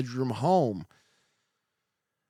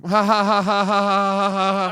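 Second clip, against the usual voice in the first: real laughter; 4 semitones higher, 6 dB louder than usual. Real, not acted. Laughing at his own joke.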